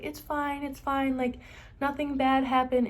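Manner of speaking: softly voiced soothing sister; gentle, soft retold comforting; imitated reassurance. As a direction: soothe someone crying, quietly.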